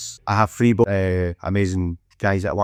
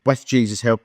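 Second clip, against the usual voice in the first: strong Scottish accent; 3 semitones higher than usual. Real, not acted. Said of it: "It's a strong Scottish accent".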